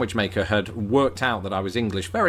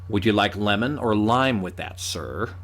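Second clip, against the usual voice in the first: American waiter. Acted.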